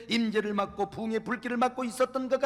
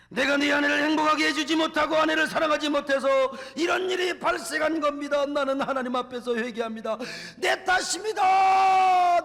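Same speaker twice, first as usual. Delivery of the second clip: shouted, much higher, louder confession; husband shouting his repentance to the church; anguished public repentance; 6 semitones higher, 6 dB louder than usual. Retold or imitated. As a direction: cry out your guilt before the congregation.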